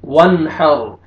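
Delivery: वन हर with a clean N and a full R; clear noon, heavy ra. Shown as a demonstration. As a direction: keep the N unhummed, thicken the R in हर. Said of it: "इजहार करना है और रॉ को आपने पुर". (वन हर, नून साफ़ और रॉ पुर)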